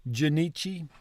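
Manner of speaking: Junichi with first syllable as juh; soft, questioning juh-NEE-chee for Junichi; uh sound for U. Shown as a demonstration. Learner testing that it's not Jew, Junichi with juh. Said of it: "the U is a uh sound".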